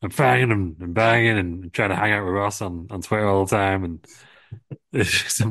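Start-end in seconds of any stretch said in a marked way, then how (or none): 0.0-3.8 loud raspy outburst then rambling; impression of Gangrel. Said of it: "so he's like".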